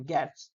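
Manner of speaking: গেটস ending in an audible TS; final S pronounced. Shown as a demonstration. Teacher tells pupils to pronounce it, গেটস with clear final S. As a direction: sound the S at the end of গেটস. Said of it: "উচ্চারণ করো".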